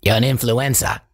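mock Boston accent, influenza for influencer; northeastern accent. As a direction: drop the r like a Boston local. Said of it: "all these accents".

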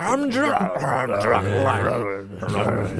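lightly mocked Jack Black bellow, falling away; Jack Black impression. Imitating Jack Black, mock-singing growl.

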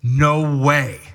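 firm, forceful no; emphatic, punched-out denial; emphatic refusal. Acted. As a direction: shut the idea down emphatically. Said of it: "It is a emphatic".

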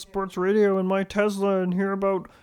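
dopey suburban Toronto guy; Toronto dialect. Retold or imitated. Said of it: "Your regional dialects have gotten very on point".

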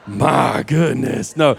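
mock double take. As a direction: play a single person suddenly perking up. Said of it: "Some of y'all are like".

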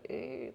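short buzzing "ee" of a flickering sign; angry neon buzz. Shown as a demonstration. Showing how the window sign shakes, quiet buzz. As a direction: imitate an irritated neon light, softly. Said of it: "like, real angry".

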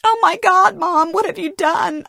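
high, loud cry of horror; horrified scream. A narrator's reading. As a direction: read a shocked scream in a strained high pitch. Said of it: "I scream at her".

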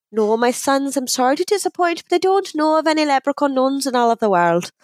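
lightly voiced apologetic nun; a hint of a regretful convent head; Mother Superior. Mother Superior disappointing the leprechauns, lightly voiced apologetic nun. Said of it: "she goes".

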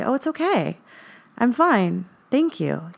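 lightly lifted, soothing reassurance; a hint of quick, polite comfort. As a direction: brush it off kindly to calm her mother. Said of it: "my natural response was to soothe her".

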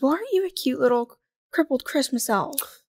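imitating a customer's cutesy remark. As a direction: coo it like a patronizing compliment. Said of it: "she said it in a, like, Hee hee, I'm being cutesy".

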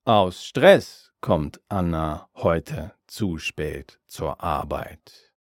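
Aus Stress slow and weighted up front. Shown as a demonstration. Teacher shows the reordered sentence, slow with Aus Stress stressed. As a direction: lean slowly into Aus Stress. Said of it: "The emphasis is on".

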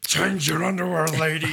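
loud booming demon voice; demonic voice. Retold or imitated. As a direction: boom it out like a demon. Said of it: "just a demonic voice".

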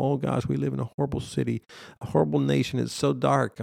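fast, mocking gloom; mock humble lament. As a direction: parody false humility, rattle it off. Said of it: "you're trying to be humble".

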